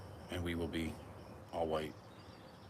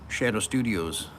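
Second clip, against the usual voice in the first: loud greeting; 5 dB louder than usual. Real, not acted. Greeting viewer Shadow in chat, loud hail. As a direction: hail the new viewer by name.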